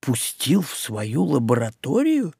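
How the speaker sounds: hushed, disbelieving question; half-whispered astonishment; amazed. Acted. Witch stunned by the news about Hopis, asking in quiet amazement. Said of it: "изумилась ведьма".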